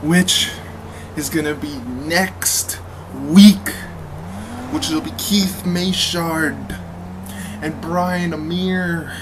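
wrestling promo shout. Acted. Wrestling promo announcing the match.

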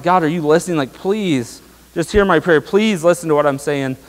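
a touch of imploring, as if retelling one's prayer; re-enacted pleading prayer. Preacher retells praying to an unanswering God, mildly pleading. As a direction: plead mildly, drawing out "please". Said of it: "There's times when I'm praying".

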